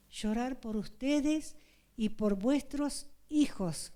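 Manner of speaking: earnest sermon voice, calling to weep; preaching. Acted. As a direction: plead with the congregation to weep. Woman preaching to brethren. (predicación fervorosa)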